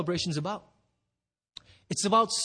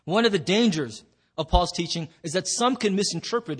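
chewing while talking. Real, not acted. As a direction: cough drop in mouth. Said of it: "I'm chewing on a cough drop".

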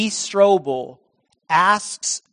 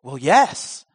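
a touch of emotion; 3 semitones lower than usual. A narrator's reading. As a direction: let the feeling catch in it. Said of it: "You say that with some emotion".

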